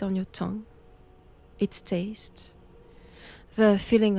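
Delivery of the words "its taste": whispering. Acted. Tempting the prisoner about blood.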